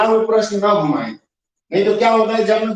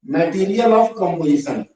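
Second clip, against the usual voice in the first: slow dictation; much slower than usual. Shown as a demonstration. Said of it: "मैंने भी आपको बताया".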